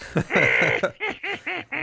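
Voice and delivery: high cackling witch laugh. Pretend. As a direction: cackle like an old hag. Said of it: "There's that witch laugh".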